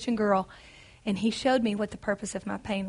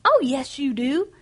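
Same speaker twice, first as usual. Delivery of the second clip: cheerful; 3 semitones higher, 5 dB louder than usual. A narrator's reading. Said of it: "he said cheerfully".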